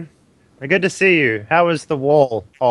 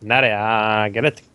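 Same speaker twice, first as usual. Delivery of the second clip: put-on Valley Girl accent. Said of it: "I heard the Valley Girl accent from Khaleesi".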